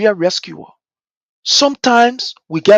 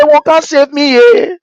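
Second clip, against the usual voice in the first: higher pleading voice of Liberia; voicing Liberia's plea; 5 semitones higher, slower than usual. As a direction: beg to be saved. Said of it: "Josephine say".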